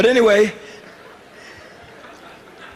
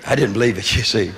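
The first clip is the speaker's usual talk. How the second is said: usual speaking voice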